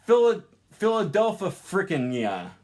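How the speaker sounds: Philadelphia frickin' said with the infix after the word; wrong infix. Shown as a demonstration. Teacher demos a broken infix placement. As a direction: tack frickin' onto the end of Philadelphia. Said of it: "These just sound terrible".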